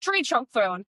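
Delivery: lightly put-on Scottish accent. Naming a Highland Games event, Scottish accent. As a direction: slip into a mock Scottish accent. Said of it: "You were full Scottish".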